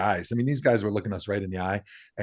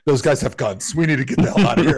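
retold urgent warning, speeding up; louder, quickening mock alarm; 4 dB louder than usual. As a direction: hurry everyone out, acted out. Bodyguards urging a hasty exit.

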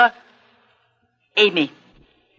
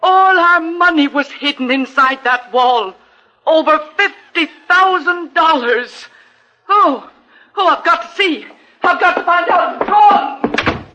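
rising higher and louder in alarm; scramble, near hysterical; aunt rushing off to check her hidden money; frantic panic; 7 semitones higher, 4 dB louder than usual. Acted.

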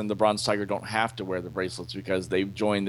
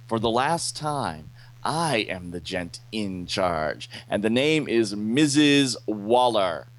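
slow, emphatic telling-off; deliberate mock threat; stern acted warning. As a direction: lay down the law, word by word. Waller scolds and threatens Captain Boomerang.

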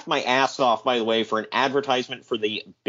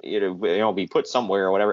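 lower, mumbling mock excuse; lightly voiced squirming boss; sheepish excuse; 5 semitones lower than usual. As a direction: dodge the blame lamely. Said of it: "And he's like".

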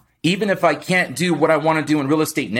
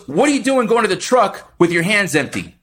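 raised, firm scolding; scolding boss; 4 semitones higher than usual. Retold or imitated. Boss scolding his worker, raised and firm. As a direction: tell him off while he works. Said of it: "He goes".

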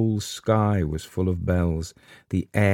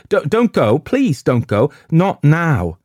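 high, loud frightened pleading; terrified; 9 semitones higher, 6 dB louder, slower than usual. A narrator's reading. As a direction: beg them not to leave, in panic. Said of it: "Now she looked terrified".

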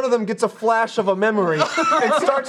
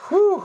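high whew; 10 semitones higher than usual. Real, not acted.

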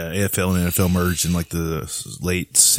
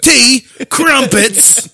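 put-on British accent; 7 dB louder, much slower than usual. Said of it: "stereotypical British guy".

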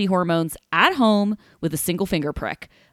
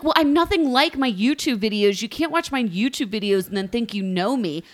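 mock Stephanie; 3 semitones higher than usual. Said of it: "she's like".

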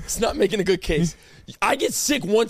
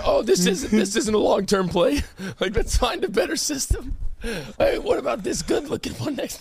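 voicing the viruses. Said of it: "They're like".

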